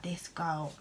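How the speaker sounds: an unvoiced, gossipy whisper; judging whisper. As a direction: whisper it behind your hand about her. Neighbours staring, imagined judging remark.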